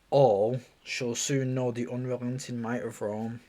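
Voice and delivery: sleepy, yawning speech. Real, not acted. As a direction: talk through a yawn. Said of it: "I'm, like, yawning as I'm speaking".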